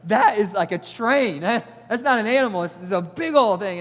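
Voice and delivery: amazed shout about a giant bull; awed exclamation. Retold or imitated. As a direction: gape at the size of the beast.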